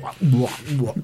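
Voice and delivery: mock sloppy chomping noises; imitated gross chewing. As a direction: mimic someone chewing with an open mouth. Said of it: "gross fucking chewing and shit".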